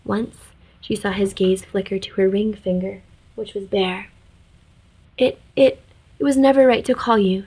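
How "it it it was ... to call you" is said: higher, halting, stumbling over the first word; stammering. Acted. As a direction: trip over the start, nervous and high. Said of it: "she stammered".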